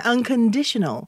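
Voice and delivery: unconditional slowed, di stretched and pushed; stress on di. Shown as a demonstration. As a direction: drag out unconditional, hit di hard. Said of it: "디, 여기에 강세가 있거든요".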